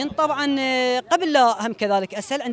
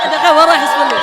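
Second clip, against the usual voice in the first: calling out; 3 semitones higher, 11 dB louder than usual. Real, not acted. Host calls winner back.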